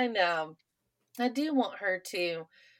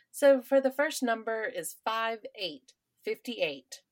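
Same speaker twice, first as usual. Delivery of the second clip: bingo caller; 3 semitones higher, slower than usual. Retold or imitated. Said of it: "the conversation goes like this".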